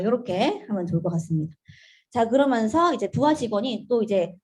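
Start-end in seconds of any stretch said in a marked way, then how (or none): none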